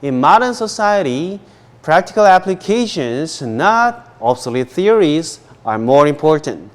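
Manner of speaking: whole sentence joined up, slow and deliberate; linked model reading. Shown as a demonstration. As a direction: read it out for students to follow, phrase flowing into phrase. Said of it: "자, 연결해서요". (연결해서 천천히 또박또박 읽기)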